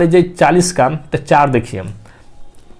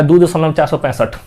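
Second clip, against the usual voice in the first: wrong run-together reading. Shown as a demonstration. Teacher showing students the wrong way to read decimals, quick run-together "चार सौ पैंसठ". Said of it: "गलती है, math के term में ये बिल्कुल गलती है".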